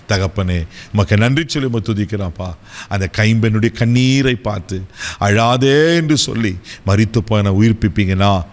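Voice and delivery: prayer. Acted. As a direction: pray over the listeners, pleading gently. Leads closing prayer.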